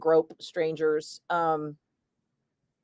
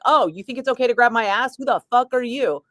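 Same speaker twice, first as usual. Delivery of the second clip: half-voiced telling-off of a groper; mock yell; 5 semitones higher than usual. Host acts out yelling at a groper in the pit, mock yell. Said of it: "then I'd yell at 'em like".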